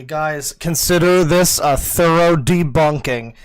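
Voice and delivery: hammed-up gloating at the whole internet; mock triumphant yell. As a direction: ham up the kid's victory lap. Mocking the kid's triumphant claim.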